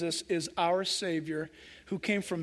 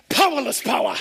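laughing reply; 6 dB louder than usual. Retold or imitated. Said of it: "Then he went".

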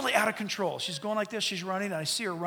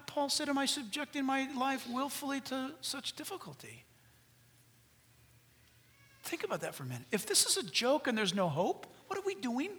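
quiet intense preaching; 3 semitones higher, 6 dB quieter than usual. Acted. Preacher leaning in to the congregation, quiet and intense. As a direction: draw them in close and quiet.

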